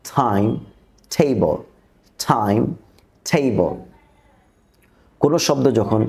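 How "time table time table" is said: টাইম and টেবল begun as t-h, with a puff of air; isolated, falling টাইম, টেবল with an airy t release; aspirated t. Shown as a demonstration. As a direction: model টাইম, টেবল one by one, t heavily aspirated. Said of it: "থি দিয়ে শুরু হয়".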